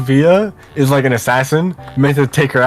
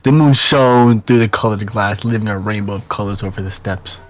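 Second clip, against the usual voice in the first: even reading, softening at line ends; story narration; 5 semitones lower than usual. Acted. Narrator follows her up the staircase, story narration. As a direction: narrate the scene with measured phrasing.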